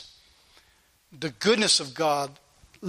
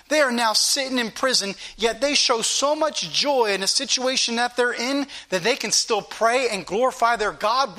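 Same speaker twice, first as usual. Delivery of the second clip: shaken bewilderment; 2 semitones higher than usual. Acted. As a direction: wonder aloud as the shaken jailer, question after question. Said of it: "I think he shook up by".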